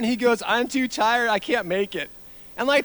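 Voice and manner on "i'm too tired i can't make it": higher whiny kid imitation; mock whining. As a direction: complain like a worn-out child. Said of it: "All the whining and complaining".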